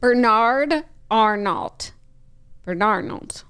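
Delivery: Bernard Arnault said slowly, every syllable; slow, deliberate Bernard Arnault; careful pronunciation. Shown as a demonstration. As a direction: spell out Bernard Arnault by sound. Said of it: "Wait, say it again?".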